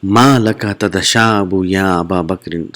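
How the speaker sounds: a hint of a teacher asking a yawning pupil. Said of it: "So teacher is asking now".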